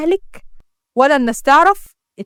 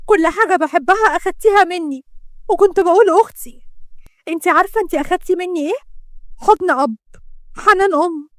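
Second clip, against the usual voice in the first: raised, aggrieved voice; hurt reproach; 3 semitones higher than usual. Acted. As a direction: pour out bitter accusations to a sister. Sister reproaches betraying sister in quarrel.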